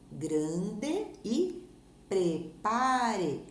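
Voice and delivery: "grande e prepare" split as gran-de, pre-pa-re; "grande e prepare" spaced out, every final e fully pronounced; syllable by syllable. Shown as a demonstration. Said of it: "observe a separação de sílabas destas palavras".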